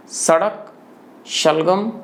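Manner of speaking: सड़क with dental s, then शलगम with palatal sh; sibilant contrast. Shown as a demonstration. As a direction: list सड़क, शलगम singly, each lifting at the end. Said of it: "फिर से देखिए". (सड़क में दंत्य स, शलगम में तालव्य श)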